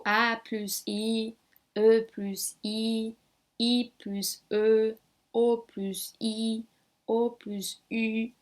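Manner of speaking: very slow, drawn-out vowel names; slow pronunciation drill. Shown as a demonstration. Teacher reading out vowel combinations, slow pronunciation drill. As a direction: recite each vowel pair slowly for learners. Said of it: "Vamos então pronunciar aqui".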